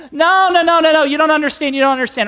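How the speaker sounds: acted frantic correction, starting high; urgent warning. Rescuer stopping a thirsty castaway, urgent protest. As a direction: cut in insistently, then settle slightly.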